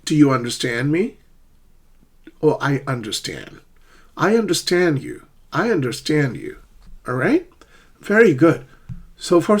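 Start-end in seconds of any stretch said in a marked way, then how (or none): 0.0-1.2 "understand me" with STAND weighted, rising on me; back-stressed "understand" in a question. Shown as a demonstration. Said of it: "it's the second syllable". 2.4-6.6 "understand" with the weight on its last syllable; stress on STAND. Shown as a demonstration. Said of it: "it's the second syllable".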